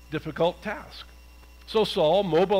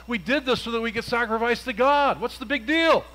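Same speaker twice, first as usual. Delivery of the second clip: defensive whine; 4 semitones higher than usual. Acted. Saul defending himself.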